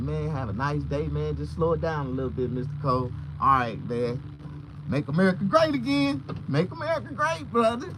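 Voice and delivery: rising into a high, loud Trump-fan cheer; friendly cop. Retold or imitated. Cop cheering the hat slogan, high and loud. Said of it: "he said".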